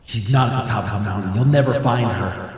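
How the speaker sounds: spooky ghost voice. Pretend. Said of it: "do I have spooky voice on right now".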